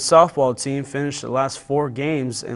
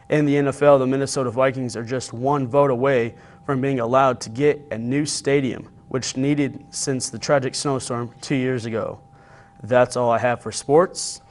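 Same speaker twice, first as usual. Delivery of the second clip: news read. Acted. Reads sports news.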